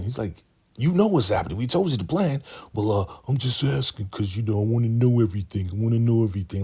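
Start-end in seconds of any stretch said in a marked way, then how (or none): 0.8-2.4 higher-pitched, impatient mock retort; exasperated retort. Accomplice answering Manny's nervous question, exasperated. 2.7-6.6 higher, hurried imitation of nervous excuses; defensive excuse. Manny explaining to his accomplices why he asks, defensive.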